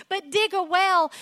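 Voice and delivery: high, pressing urge to dig; God's voice, urging. Retold or imitated. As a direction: coax them on as God. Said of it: "He's like".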